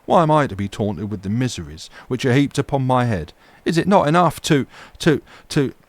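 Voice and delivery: high, loud theatrical lament; impressive solemnity. A narrator's reading. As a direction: orate with wounded, solemn grandeur. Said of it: "an impressive solemnity, solemnity in the tone of this address".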